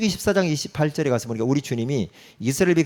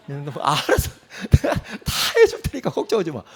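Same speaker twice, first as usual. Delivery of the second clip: laughing God. Acted. God voiced, laughing reassurance.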